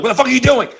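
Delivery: imitating the angry kid. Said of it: "He's like".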